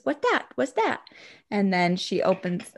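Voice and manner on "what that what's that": put-on higher curious toddler question; lightly voiced puzzled toddler. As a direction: wonder like a little kid.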